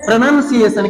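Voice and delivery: प्रोनंसिएशन with short "nun" in the middle; correct pronunciation. Shown as a demonstration. Teacher models the word for the class, correct pronunciation. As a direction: model प्रोनंसिएशन without any "ow" sound. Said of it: "तो इसे हम लोग क्या पढ़ते हैं".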